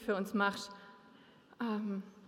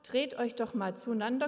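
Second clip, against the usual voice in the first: ordinary talk, nothing marked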